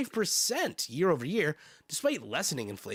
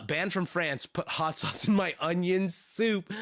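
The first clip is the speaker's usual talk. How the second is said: badly faked French accent; hammed-up mock French, slowing down; 3 semitones higher than usual. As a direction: put on a poor French accent. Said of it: "My French accent sucks".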